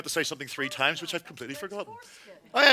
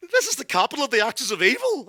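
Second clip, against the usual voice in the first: quick inner thought; 4 semitones higher, faster than usual. Retold or imitated. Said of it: "I'm thinking to myself".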